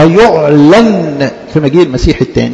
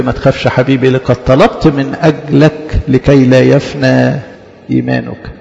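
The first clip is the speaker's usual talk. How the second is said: tender; 4 semitones lower than usual. Acted. Christ's voice comforts the fearful.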